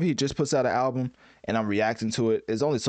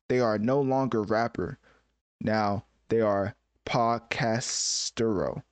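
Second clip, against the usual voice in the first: slow, deliberate mock-grand reading of lyrics; slow dramatic lyric reading; much slower than usual. Translating rap lyrics for viewers, slow mock-grand reading.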